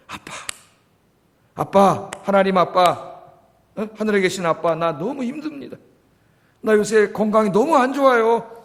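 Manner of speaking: put-on a longing, pleading child's prayer to a father; earnest pleading prayer. Shown as a demonstration. Pastor demonstrating how to pray to God, earnest plea. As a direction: beg 아빠 for help with heartfelt longing. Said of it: "어떻게 하는 거예요?".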